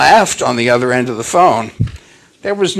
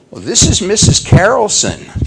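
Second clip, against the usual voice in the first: high, louder imitated phone lady; imitated woman's high phone voice; lady caller; 7 semitones higher, 5 dB louder than usual. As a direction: introduce yourself as the lady on the phone. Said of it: "the voice continued".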